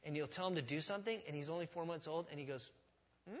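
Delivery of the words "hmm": short questioning hum, imitating a puppy; mock-baffled little "hmm?"; confused dog's hmm. Preacher imitating his baffled chihuahua, puzzled hum. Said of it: "when you say something complex to him".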